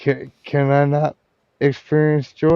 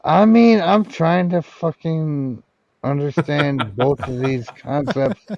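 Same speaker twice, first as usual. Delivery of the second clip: exasperated; 3 semitones higher than usual. Real, not acted. Exasperated outburst about concepts.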